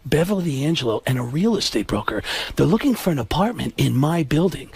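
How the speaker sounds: low-pitched, measured actor telling an anecdote; Alec Baldwin. Retold or imitated. Actor recounting an elevator encounter, low-key impression. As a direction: keep the voice down and matter-of-fact. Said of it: "And he says".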